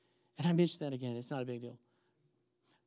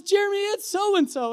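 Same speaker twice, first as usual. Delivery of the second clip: very high, louder sweet-lady voice; 7 dB louder than usual. Retold or imitated. Woman in car introducing herself to runner, sweet voice. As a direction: imitate a sweet lady, pitched way up. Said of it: "this sweet voice".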